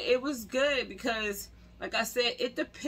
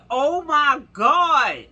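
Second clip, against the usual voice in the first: starstruck gasp; 5 semitones higher, 9 dB louder, much slower than usual. Retold or imitated. Seeing Batman by the door.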